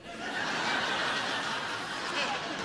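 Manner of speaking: a breathy high scoffing laugh; airy mocking chuckle. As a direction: laugh at the amateur.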